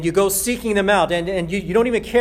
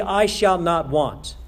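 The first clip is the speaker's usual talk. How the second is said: slow emphatic quote; slower than usual. Acted. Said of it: "even more emphatic".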